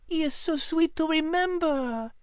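soft, high, moved reading of a love note; tender reading. Acted. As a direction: read it softly, touched. Liz, softened.

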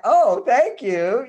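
high, drawn-out mock thanks; imitated gratitude. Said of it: "she didn't say anything to me like".

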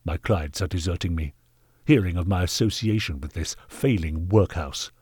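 lightly voiced indignant gentleman; mounting disgust, held in check; stern knight, angry. Knight denouncing the workhouse to its master, mildly angry.

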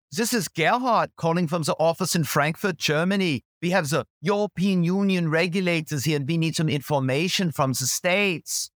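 put-on German caller Gerhard asking the US office for data, light German accent. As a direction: play a German executive calling from Frankfurt. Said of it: "putting on a German accent".

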